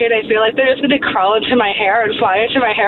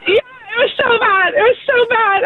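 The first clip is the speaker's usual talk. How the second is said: laughing disgust; 10 semitones higher than usual. Real, not acted. Disgusted retelling moth story.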